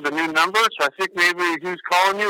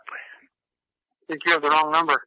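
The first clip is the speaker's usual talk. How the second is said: whispering; slower than usual. Real, not acted. Confused callee whispering.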